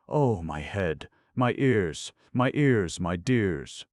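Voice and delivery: a sleeper moaning after a deafening blast; wailing in pain. A narrator's reading. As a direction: wail about aching ears. Gapers pained by trumpet blast.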